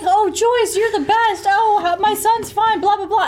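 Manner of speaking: high, sing-song imitation of a gossiping old woman; mocking chatty old lady. Son mocking the old woman chatting on the phone, high and sing-song. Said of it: "And she's like".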